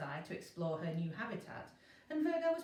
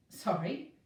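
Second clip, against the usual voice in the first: startled; 5 dB louder than usual. Acted.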